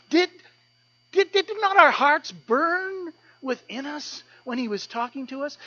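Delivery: the disciples stunned that their hearts burned within them; awestruck disciples. Acted.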